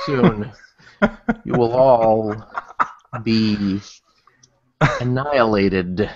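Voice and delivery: slow, lightly menacing villain line; a hint of a gloating anime villain. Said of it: "sounding like an anime villain".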